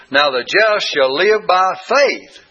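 Now the just shall live by faith, slowly, with faith pressed hardest; slow down and land on faith; stress on faith. Shown as a demonstration. Teacher reading Hebrews puts the weight on faith. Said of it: "the emphasis is most likely on faith here".

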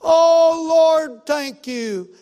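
high, hollered thanks to the Lord; big exultant shout, easing on the last words; retold joyful praise. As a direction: re-enact a man crying out in gratitude. Retold joyful release after prayer.

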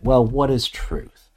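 musing question, voice lifted, drawn out slowly; honest, reflective. Shown as a demonstration. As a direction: ask it slowly as if genuinely wondering. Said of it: "an honest and reflective kind of way".

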